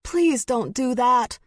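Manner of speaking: high, loud, slow pleading; desperate plea. A narrator's reading. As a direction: beg her to listen. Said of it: "desperate for her to listen".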